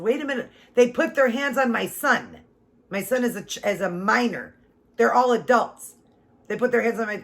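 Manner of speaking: high, loud, outraged at the police; furious protest. Retold or imitated. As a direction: hammer it home, a mother defending her son. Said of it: "Oh, I was so mad".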